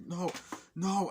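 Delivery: high, loud cry; wailing no. Retold or imitated. Dying woman screaming.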